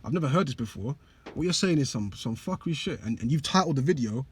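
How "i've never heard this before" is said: stunned inner thought. Retold or imitated. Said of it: "you might think".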